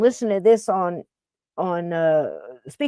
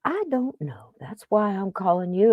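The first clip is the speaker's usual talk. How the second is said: meek whisper; 5 dB quieter than usual. Retold or imitated. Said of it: "I'm like".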